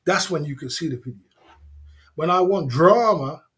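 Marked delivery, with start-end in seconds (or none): 2.2-3.4 "drama" drawn out slow and loud; emphatic warning. Real, not acted. Streamer warning his trolls about evidence, emphatic warning. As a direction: lean hard and slowly on "drama".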